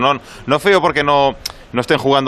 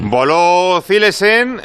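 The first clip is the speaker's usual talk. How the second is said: higher, slow, amazed call; excited; 6 semitones higher, much slower than usual. Real, not acted. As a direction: marvel at the keeper's dive. Exclaims about keeper's dive.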